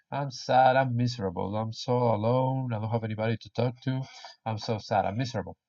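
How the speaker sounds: soft, miserable little lament; mock sad. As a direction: play lonely and sorry for yourself, voice sinking.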